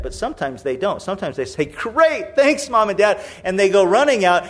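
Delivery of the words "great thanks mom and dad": put-on delighted child. Oblivious child delighted with permission.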